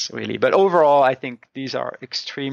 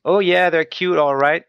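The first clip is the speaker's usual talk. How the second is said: mock country-folk greeting; rural folksy; 4 semitones higher than usual. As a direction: lightly mimic a rural old couple greeting guests. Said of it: "they try to kind of show that".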